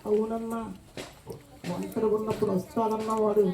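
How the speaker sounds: scared. Acted. Boy confesses a spirit visits him.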